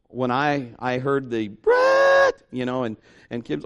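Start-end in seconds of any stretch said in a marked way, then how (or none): 1.5-2.4 calling out a name high and alarmed; panicked call. Retold or imitated. Wife calling husband over the injury, high panicked call. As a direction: call for help from the next room.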